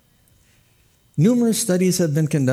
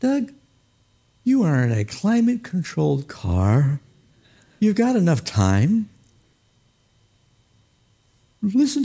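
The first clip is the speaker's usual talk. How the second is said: calming self-talk; 5 semitones higher than usual. Retold or imitated. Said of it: "I calm right down".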